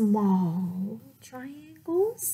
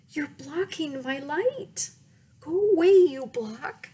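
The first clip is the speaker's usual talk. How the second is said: scared shooing; 5 semitones higher, 3 dB louder than usual. Acted. Triangle shooing Square away.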